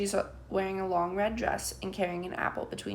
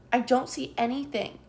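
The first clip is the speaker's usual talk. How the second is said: higher call from the chair; 5 semitones higher, 3 dB louder than usual. A narrator's reading. Girl standing on a chair calling out. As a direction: call it out over the crowd. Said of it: "she calls".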